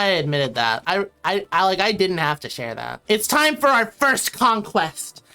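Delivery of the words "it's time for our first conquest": slow, grand ruler's voice; emperor's proclamation. Pretend. Streamer playing emperor announcing conquest to chat. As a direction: declare the conquest like a warlord.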